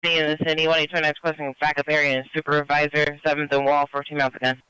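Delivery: tinny radio transmission; crackly military radio. Real, not acted. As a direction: speak through a crackling police radio. Police radio dispatch call.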